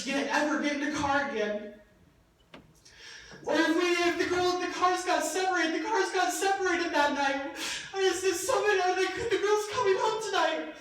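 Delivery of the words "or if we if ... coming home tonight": higher, urgent retelling of worry; anxious checking, retold. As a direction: relive the worry, voice pitched up. Reliving worry after the crash.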